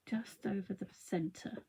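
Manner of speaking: slow soft whisper. Real, not acted. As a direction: breathe it under your breath. Quiet focused aside while crafting.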